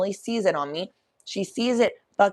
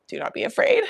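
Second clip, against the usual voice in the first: laughing; 3 dB louder than usual. Real, not acted. Laughing at shirt idea.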